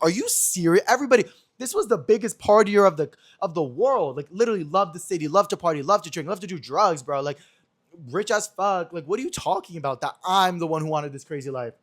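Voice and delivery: retold indignant rant; incredulous comeback. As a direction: protest like you can't believe your ears. Retold outraged comeback to friend's claim.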